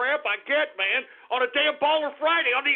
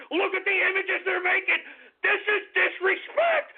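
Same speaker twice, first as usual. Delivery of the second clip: overwrought rant; 4 semitones higher than usual. Acted. Radio host losing it at callers.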